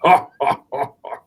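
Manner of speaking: breathy imitated big laugh; loud laugh. Giant laughing after teasing the kid, imitated breathy laugh. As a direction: toss out a giant's booming laugh, mock style. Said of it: "laugh and everything".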